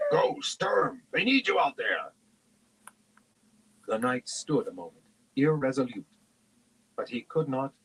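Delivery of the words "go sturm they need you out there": strained, high-pitched distant call; loud yelling. A narrator's reading. Companion urging the knight outside, yelling. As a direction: holler urgently to a friend. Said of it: "he heard Flint yelling loudly".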